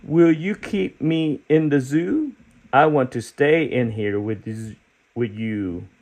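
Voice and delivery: lightly voiced eager character; storybook character voice. Teacher reading the book to kids, lightly voiced eager creature. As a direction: read it as the hopeful spotted creature.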